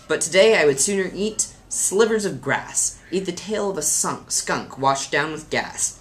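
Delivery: put-on lilting children's poem recital; mildly theatrical verse reading. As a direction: read a funny poem with lively emphasis. Reads a poem aloud.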